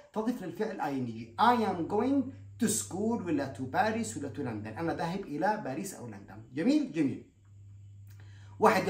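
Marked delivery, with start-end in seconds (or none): 1.4-4.8 stretched out very slowly; slow model sentence. Shown as a demonstration. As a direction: spell out the example slowly. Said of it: "يعني أصلها go". (نطق بطيء للمثال)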